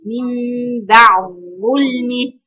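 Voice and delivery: slow "بعد ظلمه" with the د merged into the ظ; assimilated d. Shown as a demonstration. Teacher demonstrating the assimilation to her students, slow and careful. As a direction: stretch "بعد ظلمه", the د turned into a held ظ. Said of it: "بتنتقلي من العين لظاء".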